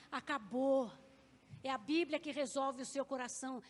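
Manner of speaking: loud, final acabou; emphatic declaration. Real, not acted. Repeated word, emphatic declaration.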